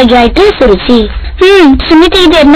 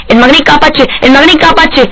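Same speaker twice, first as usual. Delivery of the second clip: pleading that climbs higher with each cry; desperate prayer; 3 semitones higher than usual. Acted. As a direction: beg the god ever more urgently for your child. Mother prays desperately for son.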